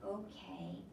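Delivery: put-on a sulky boy barely giving in; tiny little voice. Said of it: "in a tiny little voice".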